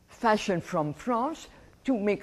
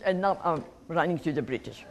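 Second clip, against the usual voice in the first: laughing; faster than usual. Real, not acted. Laughing at her own irony.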